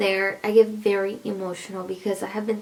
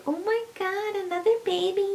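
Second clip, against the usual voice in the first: high, squealy mock surprise; mock shocked; 10 semitones higher, 3 dB quieter than usual. Friends reacting to a fourth pregnancy, mock shocked. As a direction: imitate friends gasping at the news. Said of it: "they're like".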